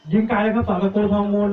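commentator's lift, easing off at the end; excited shot call. Real, not acted. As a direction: call a long shot as it flies. Live call of a long shot.

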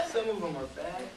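jokey admission. Acted. Producer owning up to his bad films, amused.

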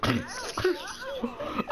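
high-pitched, incredulous cry; real bewildered outburst. Real, not acted. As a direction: blurt it out in amused disbelief. Bewildered, amused by what just happened.

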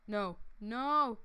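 long, drawn-out mock-dramatic no; hammed-up slow-motion despair. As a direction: stretch each no out as if in slow motion. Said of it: "I have to put it in slow motion".

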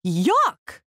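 grossed-out exclamation; disgusted yuck. Acted. Townsperson tasting a bad donut, disgusted. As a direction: pull a face at the taste.

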